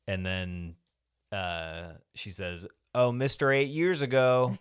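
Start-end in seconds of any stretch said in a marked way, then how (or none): 2.9-4.6 raised, higher-pitched mock yell; retold yell. Squeaky to Cliff as he's walking through the house, yelling. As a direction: yell it out as her, louder and higher. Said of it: "she yells out".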